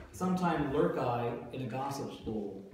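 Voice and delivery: slow, measured verse reading; slow line demonstration. Shown as a demonstration. Teacher quoting the student's line from the previous page, slow demonstration. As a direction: quote the line slowly and deliberately. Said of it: "try not to emphasize".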